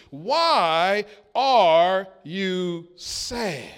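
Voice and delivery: drawn out slowly and gently, almost pleading; slow tender question. Shown as a demonstration. Jesus asking the grieving disciples, slow and tender. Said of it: "He asked them the question".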